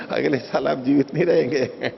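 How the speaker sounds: chuckling through the punchline; amused, laughing aside. Real, not acted. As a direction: laugh while delivering the joke. Joke about age, laughing.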